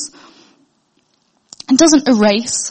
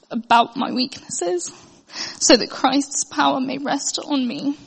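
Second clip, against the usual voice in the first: softer, halting, close to tears; choked-up scripture reading; tearful reading; 4 dB quieter than usual. Real, not acted. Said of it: "I don't know why I'm crying now".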